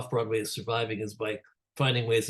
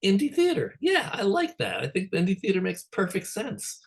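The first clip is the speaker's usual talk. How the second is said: bright, high, enthusiastic self-quote; light up as you say it, higher; excited; 9 semitones higher than usual. Retold or imitated. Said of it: "made me go".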